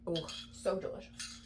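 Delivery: soft whispered savoring; whispered delight. Real, not acted. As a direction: breathe it out after a sip. Tasting her drink.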